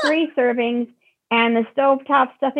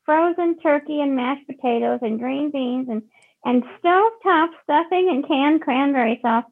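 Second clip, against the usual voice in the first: whiny mock voice; 3 semitones higher than usual. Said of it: "when you use that voice to describe".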